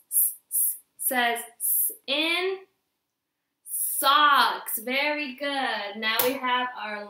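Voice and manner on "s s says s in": "s" hissed slowly and drawn out; slow sound demo. Shown as a demonstration. Teacher modelling the letter sound for kids. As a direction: stretch the s sound for the class. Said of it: "and s".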